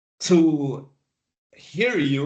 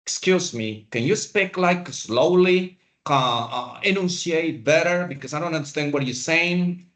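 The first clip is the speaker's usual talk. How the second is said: rude impatient demand. Retold or imitated. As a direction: imitate a rude receptionist, half-hearted. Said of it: "That is very rude".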